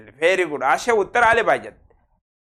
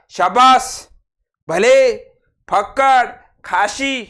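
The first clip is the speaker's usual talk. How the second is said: louder, cheering "शाबास"; hearty praise; 4 semitones higher, 4 dB louder, much slower than usual. Shown as a demonstration. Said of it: "हे प्रशंसा दर्शक".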